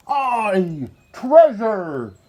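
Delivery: high, loud excited crew shout; pirate crew shout. A narrator's reading. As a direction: cheer it like greedy pirates. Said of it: "the others shouted".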